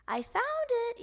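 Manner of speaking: Froggy yelling from inside; yelled. Acted. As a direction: shout it back. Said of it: "yelled Froggy".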